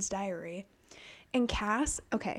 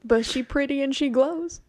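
mock confession; 4 semitones higher, 8 dB louder than usual. Acts out Cass confessing to mom.

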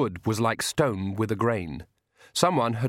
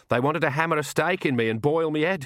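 lightly voiced old countrywoman, higher pitch; a hint of affronted granny; indignant Nanny figure; 5 semitones higher than usual.

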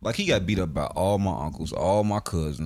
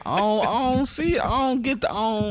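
much higher, stammering through a laugh; laughing mock denial; 13 semitones higher than usual. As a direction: echo the denial while laughing.

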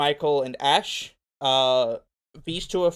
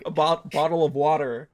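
put-on Australian putting on an American accent; playful attempt at American pronunciation. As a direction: try a hammed-up American accent. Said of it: "Just the speaker speaking with an American accent".

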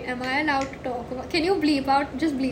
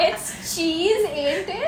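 British accent; 3 semitones higher, much slower than usual. Shown as a demonstration. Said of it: "I can do a really sick British accent".

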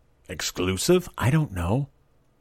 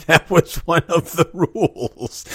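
slow, higher, laughing through it; 8 semitones higher than usual. Real, not acted. Amused by her family's odd soup rule, laughing.

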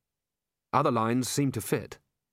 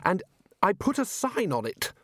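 high-pitched protest, mildly shouted; a touch of a frantic shout; indignant shout; 9 semitones higher than usual. A narrator's reading. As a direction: insist on it in acted indignation. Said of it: "shouted Ridcully, waving his hand frantically".

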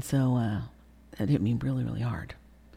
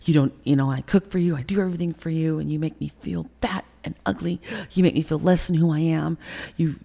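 raised, heated accusations to husband; pouring out the hurt in a half-shout; mild retold screaming. Wife confronting her husband in their house, mild mock yell. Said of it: "Screaming, ripping my vocal cords".

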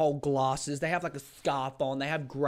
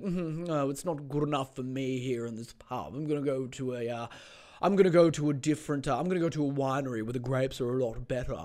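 mock wine snob. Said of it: "Be like".

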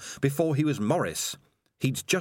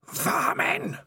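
scornful cry. Acted. Spider mocks the word.

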